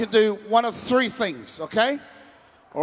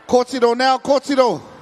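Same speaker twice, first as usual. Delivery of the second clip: calling out; 3 semitones higher, 5 dB louder than usual. Real, not acted. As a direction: call her up loudly, stretching it. Calling a girl up on stage.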